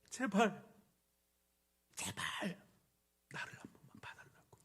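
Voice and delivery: strained plea sinking to a voiceless breath; beg, voice giving out into near silence; desperate pleading. Acted. Blind man begs to be noticed, desperate breaking plea. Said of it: "얼마나 정말 절박한지가".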